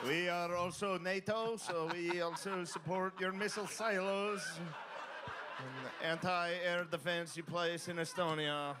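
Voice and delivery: mock earnest.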